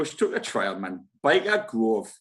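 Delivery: mock Geordie catchphrases; badly faked Geordie; bad Geordie accent. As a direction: put on a rough Geordie accent. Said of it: "That's terrible Geordie accent".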